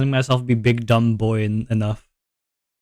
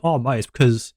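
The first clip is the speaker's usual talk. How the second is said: lightly imitated Aussie bloke, breaking into laughter; a hint of Australian accent, playfully insulting; mock Australian accent. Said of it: "your regular Australian accent".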